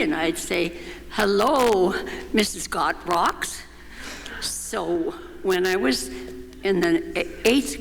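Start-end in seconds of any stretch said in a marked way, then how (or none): 1.1-3.6 answering Helen's silly greeting, lightly hammed-up hello. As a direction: answer with a light put-on grand-lady voice. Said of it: "greeted each other with these silly names".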